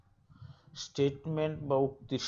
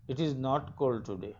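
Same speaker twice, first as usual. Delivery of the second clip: very slow, careful read of "It is cold today"; slow example reading; much slower than usual. Shown as a demonstration. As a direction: spell it out word by word for the class. Teacher reads example sentence.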